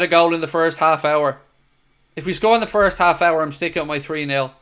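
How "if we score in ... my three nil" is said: talking through hiccups. Real, not acted. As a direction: speak with hiccups. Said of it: "got the hiccups".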